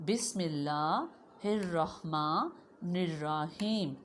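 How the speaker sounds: put-on slow, drawn-out recitation for children to repeat; teacher reciting for the class. Shown as a demonstration. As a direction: chant the surah slowly, line by line. Recites the surah again.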